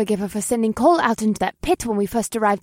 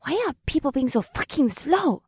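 irritated hiss, pitched up; exasperated, higher-pitched aside; hissed under breath; 5 semitones higher than usual. Acted. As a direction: grumble impatiently under your breath. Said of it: "Akira hissed under her breath".

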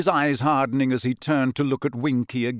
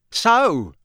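savage triumph; 9 semitones higher, 6 dB louder than usual. Acted. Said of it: "with a kind of savage triumph".

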